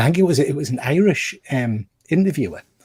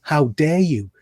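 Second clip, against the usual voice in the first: retold indignant rant, pitched up; Stephen Fry; 4 semitones higher, 4 dB louder than usual. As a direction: imitate an affronted tirade. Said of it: "he just launches into the, the, this rant".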